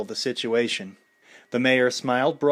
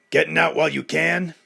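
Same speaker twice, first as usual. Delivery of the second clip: taunting call, louder; yelled; 5 semitones higher, 6 dB louder than usual. A narrator's reading. Heckler taunting Rocky from the crowd, loud. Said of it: "a voice yelled from the crowd".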